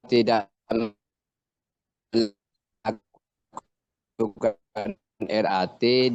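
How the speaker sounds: words broken up by a bad signal; choppy connection. Real, not acted. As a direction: voice cutting out between words. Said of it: "putus-putus, Pak".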